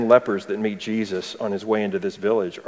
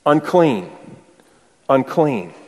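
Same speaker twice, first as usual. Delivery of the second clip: raised, fading warning call; mock calling out; 3 semitones higher, slower than usual. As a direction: call it out like a leper warning people off. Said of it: "they had to call out".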